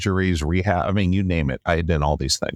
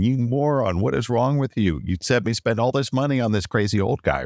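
mock angry yell, a bit higher; re-enacting yelling at the dating coach down the phone; imitating his own angry phone rant; retold yelling; 4 semitones higher than usual. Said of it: "after I'm yelling at him".

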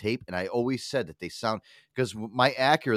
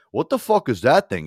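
imitating a baffled coworker, louder and higher; baffled disbelief; 4 semitones higher, 8 dB louder than usual. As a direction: blurt it in mock bewilderment. Retells young coworker baffled by eight track.

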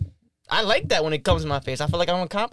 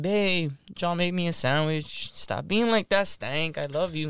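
slow, coaxing babe voice; sweet request; slower than usual. Retold or imitated. To his girlfriend, asking sweetly for a sandwich, slow and coaxing. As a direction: sweet-talk her into it, slowly. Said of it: "we not talking like".

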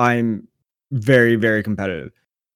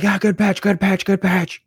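high-pitched mock cheer; mock tryhard chatter, pitched way up; sarcastic mimicry; 8 semitones higher than usual. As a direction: chirp fake encouragement at the pitcher. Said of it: "sarcastically mimic their hard-oness".

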